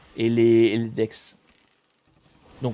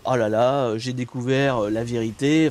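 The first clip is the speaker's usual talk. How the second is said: a hint of an alarmed conspiracy theorist, a bit louder; mock conspiracy theorist; 3 dB louder than usual. Streamer mocking a panicky cyber influencer, lightly hammed-up alarm. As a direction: lightly play the breathless truth-revealer. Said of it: "le mode full complotiste".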